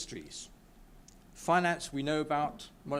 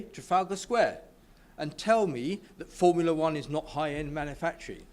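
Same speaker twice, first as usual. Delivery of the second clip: impassioned and louder, pressing the point; real emotion building in the argument; fired up while defending British manufacturing; getting emotional; 5 dB louder than usual. Real, not acted. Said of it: "sorry, I'm getting emotional".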